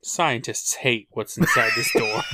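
laughing shrill hyped headline; clickbait video narrator. Pretend.

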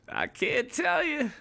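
very high, slow sing-song tease; playful tease. Acted. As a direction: coyly refuse to spill. Teasing audience about night.

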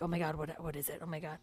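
low, hushed, bracing for bad news; dread under the breath. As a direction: sink to a quiet, anxious aside. Bracing for child's confession.

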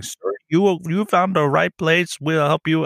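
eager salesman voice. Retold or imitated. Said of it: "And he's like".

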